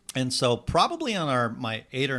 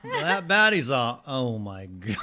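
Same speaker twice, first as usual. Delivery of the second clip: mock impressed; slower than usual. Mimicking impressed friend.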